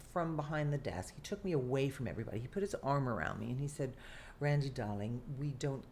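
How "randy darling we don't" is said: lightly put-on British accent, barely there; a half-hearted British director impression; terrible British accent. Actress imitating the British director comforting her, light British accent. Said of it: "I'm doing a terrible British accent".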